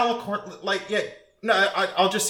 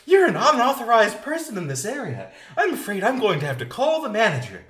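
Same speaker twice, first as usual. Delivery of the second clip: customer service voice; 3 semitones higher, faster than usual. Retold or imitated. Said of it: "the customer service vibe".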